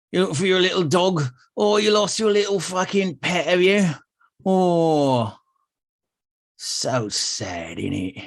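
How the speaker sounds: lightly pompous, mocking thug; dim pompous cartoon cop. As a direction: sneer it like a smug bully. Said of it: "The man goes".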